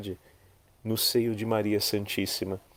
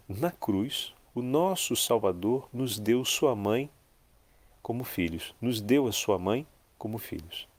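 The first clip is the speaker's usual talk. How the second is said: solemn reading. Acted. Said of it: "Ouçamos juntos".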